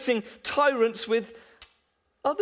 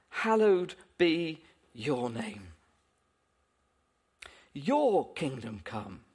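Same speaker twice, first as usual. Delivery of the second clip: reciting the Lord's Prayer. Shown as a demonstration. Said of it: "He taught us to pray".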